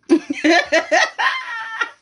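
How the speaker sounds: high, drawn-out peal of laughter; real laughter. Real, not acted. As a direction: burst out laughing mid-story. Laughs at her own story.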